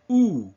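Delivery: isolated oo for demonstration; oo vowel. Shown as a demonstration. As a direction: pull the lips in for oo. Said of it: "as if you're going to say".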